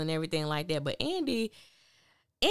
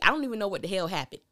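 ordinary talk

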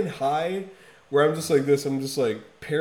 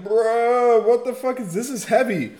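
much higher and louder, blown away; amazed shout; 11 semitones higher, 8 dB louder than usual. Retold or imitated. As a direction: yell it like the riff just hit you. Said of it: "I was like".

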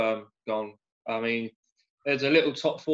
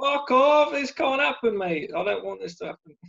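high, hammed-up pleading; high-pitched mock distress, easing off at the end; mock choked-up; 12 semitones higher than usual. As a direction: act out being choked up, pitched way up. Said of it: "I was getting choked up today".

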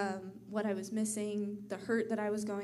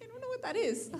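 high, giggling disbelief; laughing through it; 14 semitones higher, faster than usual. Retold or imitated. Daughter retells her fry sauce confusion, laughing. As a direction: laugh out the quote as a baffled kid.

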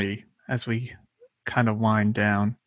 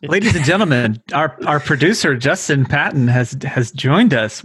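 announcer voice; 3 semitones higher, 5 dB louder than usual. Pretend. Mock introduction of the producer.

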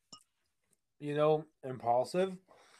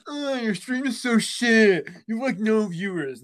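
mock aggressive heckler; 7 semitones higher, 4 dB louder than usual. Viewer trolling a small streamer, mock aggressive jeer. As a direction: imitate a troll taunting in a high voice. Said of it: "why are you so aggressive".

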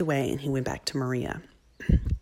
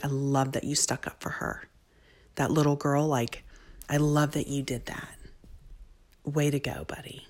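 retold praise; 5 dB quieter than usual. Mother praising son afterwards, soft and sincere. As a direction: quietly tell a child you're proud.

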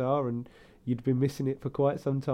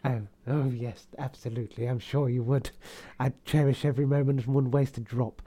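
camp innuendo voice; 2 semitones lower than usual. Pretend. Camp banter continues.

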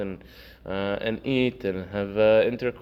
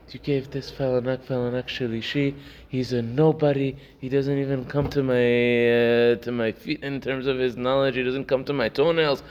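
raised, higher-pitched huffy complaint; indignant outburst; 4 semitones higher than usual. Retold or imitated. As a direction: retell a proud man's offended rant. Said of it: "the man erupts".

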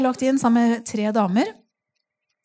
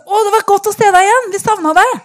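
retold bright, high, loud welcome; excited greeting; 10 semitones higher, 7 dB louder than usual. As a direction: gush like nurses happy to see her. Nurses greeting her warmly again.

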